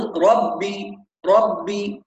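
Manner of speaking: "ربي" with a doubled b and no nasal hum; pure oral ba. Shown as a demonstration. Teacher tells students what he wants, ربي with a clean double b. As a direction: hold the bb of "ربي" with the nose shut off. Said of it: "مفيش خيشوم شغال".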